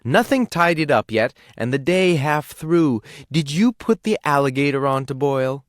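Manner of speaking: shrill cave wife telling him off; scolding cave wife. A narrator's reading. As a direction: nag the lazy husband. Wife scolding idle husband.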